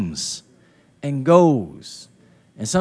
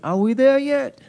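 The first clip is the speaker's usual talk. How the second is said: put-on high-pitched kid in the back seat; imitating an impatient child; 8 semitones higher than usual. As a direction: whine it like a child who can't wait. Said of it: "a child can't wait".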